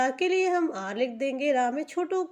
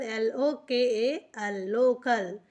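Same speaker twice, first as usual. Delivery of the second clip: slow spelling; slower than usual. Shown as a demonstration. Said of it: "spelling letter by letter".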